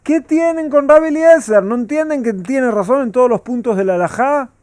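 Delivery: a loud, high retelling of the voice from heaven; lightly voiced heavenly proclamation; heavenly voice retold. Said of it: "¿Qué dijo la voz del cielo?".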